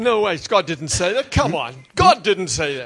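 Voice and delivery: emphatic, loud dismissal with punched words; mock disbelief. Preacher voicing doubters to his congregation, mock disbelief. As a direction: act out a scornful doubter.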